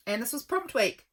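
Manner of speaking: talking through a yawn; words stretched by a yawn. Real, not acted. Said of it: "Excuse me, I'm yawning".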